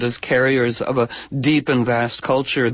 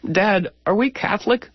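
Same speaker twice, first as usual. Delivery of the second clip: curious son; 5 semitones higher than usual. Retold or imitated. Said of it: "and his son says".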